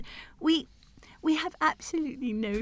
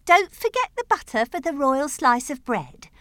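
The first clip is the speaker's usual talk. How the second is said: brisk, louder instruction in verse; dairymaid's reminder; 5 dB louder than usual. Acted. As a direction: remind the cow, lightly in character. Dairymaid voiced in poem.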